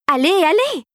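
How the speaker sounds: high, excited hurry-up; buzzing urging. A narrator's reading. Fairy hurries everyone at the machine, buzzing with excitement. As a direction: urge them on with a high flutter. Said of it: "vibrionna la fée rosée".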